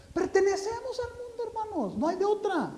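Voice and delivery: emphatic exclamation. Acted. Preacher exclaims to congregation.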